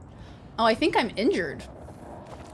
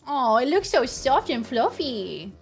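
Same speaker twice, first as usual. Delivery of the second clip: cutesy cooing. Real, not acted. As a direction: coo as if at a cute pet. Cooing over the fluffy animal.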